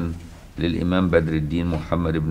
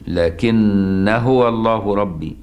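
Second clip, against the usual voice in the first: slow chanted recitation; Quran recitation; much slower than usual. Shown as a demonstration. Teacher chanting the Kisai reading for students.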